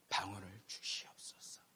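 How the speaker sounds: soft, slow whispered plea; whispered prayer. Retold or imitated. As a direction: breathe the prayer softly over his head. 총장님이 기도해 주심. (총장님이 머리에 손 얹고 속삭이듯 하는 기도)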